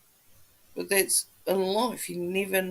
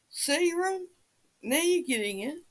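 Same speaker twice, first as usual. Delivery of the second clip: high teasing lilt; high playful tease at Ron; 7 semitones higher, 4 dB quieter than usual. Real, not acted. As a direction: tease him lightly. Teasing a viewer.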